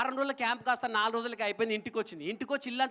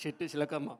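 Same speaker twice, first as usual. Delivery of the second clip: KCR impression; 7 semitones lower, 6 dB quieter than usual. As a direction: speak like a Telangana leader addressing a crowd. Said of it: "మన కేసీఆర్ గారు చెప్తే ఈ విధంగా ఉంటుంది".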